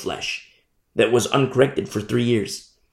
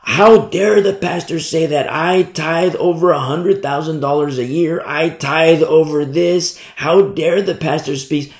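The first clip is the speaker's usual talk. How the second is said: indignant rich parishioner; 3 semitones higher than usual. Retold or imitated. Wealthy tither complaining about the pastor, indignant. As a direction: huff like an offended big donor. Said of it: "some of the wealthy ones".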